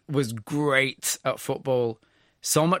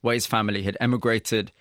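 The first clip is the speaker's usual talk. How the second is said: measured, scripted presenter read over music; polished broadcast storytelling voice; radio documentary narration. Acted. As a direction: set up the story like a radio feature host.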